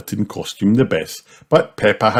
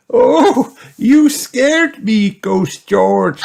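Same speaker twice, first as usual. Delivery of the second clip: loud, high, drawn-out fright; startled granny; 7 dB louder, much slower than usual. A narrator's reading. Granny startled by a little ghost, high loud startled voice. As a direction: exclaim as if playfully spooked. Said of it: "said Granny Pig".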